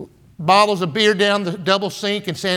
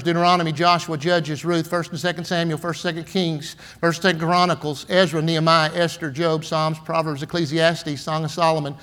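memorized list recitation. Shown as a demonstration. Preacher showing he learned the books of the Bible, recited by rote. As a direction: recite it by rote in even runs.

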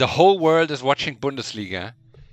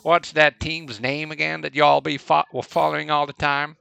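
Southern drawl. Retold or imitated. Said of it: "sometimes they can have a little drawl to them".

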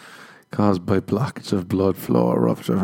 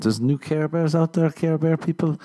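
excited; 7 semitones higher than usual. Real, not acted. Excited calling out to audience.

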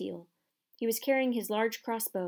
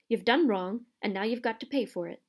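fierce; 2 semitones higher, 4 dB louder than usual. Acted. Hagrid fierce.

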